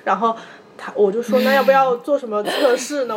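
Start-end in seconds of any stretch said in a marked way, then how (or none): 1.4-3.2 crying. Retold or imitated. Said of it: "我一边哭一边还记得说".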